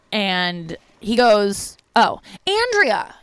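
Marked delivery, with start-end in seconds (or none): 2.0-3.2 high, drawn-out call across the room. Retold or imitated. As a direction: sing her name out to the far corner. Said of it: "And he calls to her".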